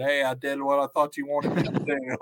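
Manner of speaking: lightly voiced dimwit; Mongo. Recapper playing Mongo excusing himself to Deborah, acting dumb. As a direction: play dumb with a slightly put-on voice. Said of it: "like acting dumb with it".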